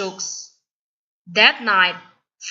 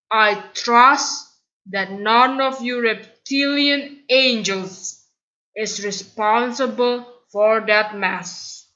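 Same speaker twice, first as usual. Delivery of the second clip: suspicious headmaster sweet-talking; sly principal. Acted. Principal's oily threat.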